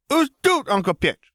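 put-on high, lisping little child voice; a small boy pestering his uncle, high and lisping; toddler voice. A narrator's reading. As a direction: play a small eager toddler. Toddler Ben asks for help.

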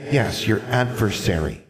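put-on high, knowing child voice; smug ghost girl. Ghost girl telling Alexandra about her Geist, smug high child voice. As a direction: tease with a secret.

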